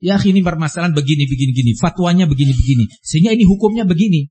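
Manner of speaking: quick-fire imitation of someone handing down verdicts; fast, offhand mock pronouncement; imitated glib ruling. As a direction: rattle it off quickly, mimicking someone compartmentalising issues. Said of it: "dia sudah mulai nih mengkotak-kotakkan masalah".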